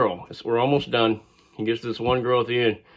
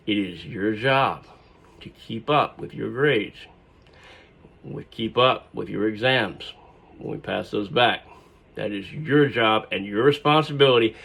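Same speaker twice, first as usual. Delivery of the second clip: stern professor; 2 semitones lower than usual. Retold or imitated. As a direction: spell out each word as a warning. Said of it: "he, like, was raging on the inside".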